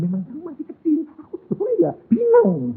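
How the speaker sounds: a hint of a high, fluttery voice; high mock voice. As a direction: pitch up as if flustered. Father voiced in high register. (suara tinggi pura-pura bingung)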